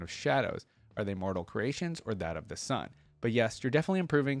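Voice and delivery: lightly voiced thoughtful scholar, calm critique; Diana's note read. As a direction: read it like a patient, clever friend giving feedback.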